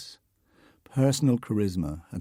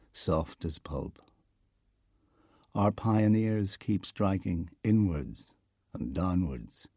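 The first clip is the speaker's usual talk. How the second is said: poem reading. Acted. Documentary narrator reads Heaney's poem aloud, measured poem recital.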